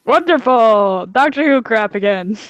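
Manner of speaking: sarcastic. Real, not acted. Sarcastic reply about time travel.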